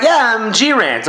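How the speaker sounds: "G-Rant" drawn out slowly as two parts, G then Rant; mock the guy saying "G-Rant" slowly. Radio guy slowly spells out his name as "G-Rant". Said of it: "He's like".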